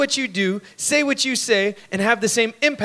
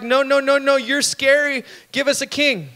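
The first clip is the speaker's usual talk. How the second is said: fearful people; 6 semitones higher than usual. Retold or imitated. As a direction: push God away, scared and insistent. People refusing God.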